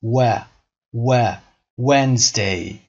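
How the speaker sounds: isolated "و" as a rounded weh, then Wednesday; rounded W sound. Shown as a demonstration.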